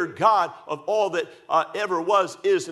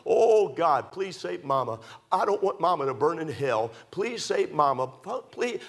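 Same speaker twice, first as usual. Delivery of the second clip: tearful prayer. Retold or imitated. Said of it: "I'd cry and I'd weep".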